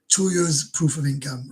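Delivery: slow, subdued repeat of the phrase; slow rereading. Real, not acted. Streamer rereading the visa rule to himself, slow and sheepish. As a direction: let it sink in, slowly.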